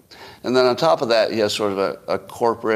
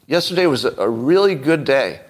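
higher, overeager fake sincerity; insincere liar delivery; 4 semitones higher than usual. Shown as a demonstration. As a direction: sell a line you don't believe, pitched up. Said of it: "Now I'm gonna give you liar eyes".

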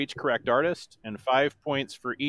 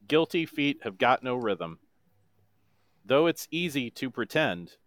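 monotone voice. Shown as a demonstration. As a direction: speak the song, don't sing it. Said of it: "in my best monotone voice".

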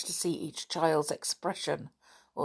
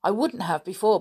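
indignant; 4 semitones higher, 5 dB louder than usual. Acted. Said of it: "said Anne indignantly".

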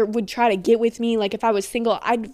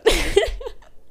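high giggle with no words; 10 semitones higher than usual. Real, not acted. Amused by her boyfriend's imagined reaction, giggling. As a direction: break into a high-pitched giggle.

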